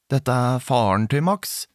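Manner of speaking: lightly voiced father, slow with a rising end; put-on deep voice. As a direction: slowly pretend to be Max's father. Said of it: "Med dyp stemme".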